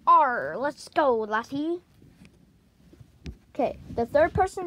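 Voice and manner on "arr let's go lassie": pirate voice. Acted. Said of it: "Foxy the Pirate".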